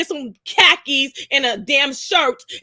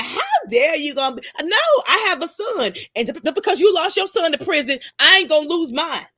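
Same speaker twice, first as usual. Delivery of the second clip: raised pitch, indignant mock retort; imitating angry aunt; 5 semitones higher than usual. Aunt scolding her niece, higher indignant mock voice. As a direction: play the offended aunt snapping back. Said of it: "She was like".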